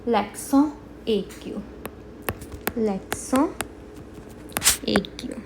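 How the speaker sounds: l'accent aigu said in separate words for learners; teacher's careful l'accent aigu; French term modelled. Shown as a demonstration. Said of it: "In English we say acute accent".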